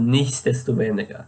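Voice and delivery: nicht desto weniger with the S pressed; stressed S. Shown as a demonstration. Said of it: "put emphasis on the S".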